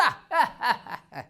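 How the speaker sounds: a villain's pleased chuckle; short smug laugh of a proud man; gloating laugh. Acted. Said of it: "이렇게 기쁜 마음으로". (흡족해하는 악역의 웃음)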